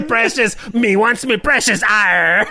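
laughing Gollum with a pirate growl. Retold or imitated. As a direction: hiss it like Gollum turned pirate. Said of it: "kinda like Gollum and a pirate".

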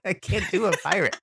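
pirate voice. Acted. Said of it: "Can she talk like a pirate?".

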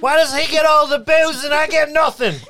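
put-on drunk character voice. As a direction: slur it like a grumpy drunk.

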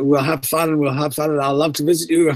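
a lightly voiced spooky ghost teasing; ghostly voiceover. Ghost voiceover teasing the dinner guests, lightly spooky. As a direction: tease the guests like a playful phantom. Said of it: "the voiceover starts to laugh and he's saying".

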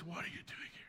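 very soft whispered question; hushed and barely audible; gentle whisper. A narrator's reading. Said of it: "there was a gentle whisper".

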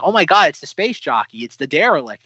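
mock-amazed outburst, easing slightly; excited realization. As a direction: relive spotting something thrilling on screen. Retells thrilled reaction to preview.

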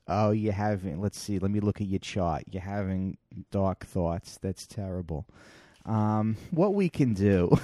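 a hint of a flat, indifferent doctor; imitating a friend's mock psychiatrist; detached psychiatrist. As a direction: read the chart like you don't care. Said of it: "she was doing an impression of a psychiatrist".

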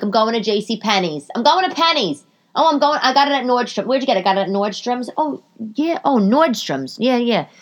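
high, lightly snooty shopper voice; posh shoppers. Retold or imitated. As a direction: play someone proud of where they shop. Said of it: "people are like".

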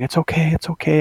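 hushed comforting retold from upstairs; imitated soothing mom. Mom to sobbing sister upstairs, softly soothing.

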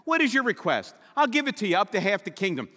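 mildly lifted, quick formulaic royal promise; king speak. Retold or imitated. Preacher imitating how kings talk, lightly voiced. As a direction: rattle off the stock royal line. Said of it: "That's king speak".

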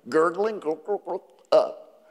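soft mock gurgle, trailing off quiet; a quiet playful gurgle sound; gurgling sound. Shown as a demonstration. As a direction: imitate a spring gurgling, softly. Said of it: "look at this term, bubbling spring".

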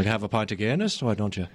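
casual Irish accent. Shown as a demonstration. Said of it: "when I do the Irish".

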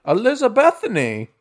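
put-on high, singsong old-lady voice; old lady innkeeper. Innkeeper telling a guest her name, high old-lady voice. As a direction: sing out the name like an old hostess. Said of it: "what's your name again, ma'am?".

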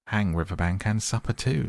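a friend's hearty dismissal, mildly played; heartily. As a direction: brush the worry aside with gusto. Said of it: "said the rat heartily".

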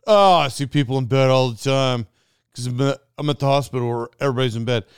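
quick, sing-song mockery of the buyer; mocking impression. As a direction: rattle it off as if it's silly. Mocking the buyer's hospital excuse.

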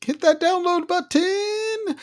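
very high, hammed-up squeal of a pitch; hype promoter. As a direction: squeal the offer like an over-keen advertiser. Acting out hyped promoter pitch.

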